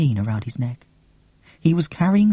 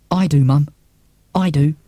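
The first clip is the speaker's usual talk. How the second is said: firm insistence; 6 dB louder than usual. Acted. Child insisting to mum.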